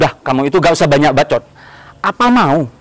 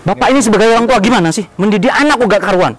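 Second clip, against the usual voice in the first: angry scolding; 5 semitones higher than usual. Acted. Husband scolds the father.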